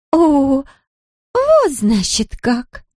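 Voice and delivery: put-on high, slow breaking drunken voice. A narrator's reading. Drunk Larisa realizes Zoya is there, voice breaking. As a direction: let the voice crack as you drag it out. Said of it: "её голос надломился".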